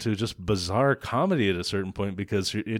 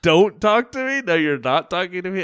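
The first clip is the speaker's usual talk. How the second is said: loud, higher imitation of a raging boss; mock angry yell; 7 semitones higher, 6 dB louder than usual. Boss barking at the crew, mock angry shout. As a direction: play the raging boss for laughs. Retelling Nick berating a worker.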